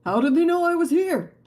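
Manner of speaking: high, loud alarmed yelp; panicked character voice. Acted. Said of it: "Oh, this is him".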